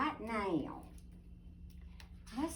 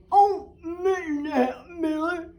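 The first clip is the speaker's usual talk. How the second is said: exasperated; 7 semitones higher, 13 dB louder than usual. A narrator's reading. Beatrice reacts to dropped rhubarb.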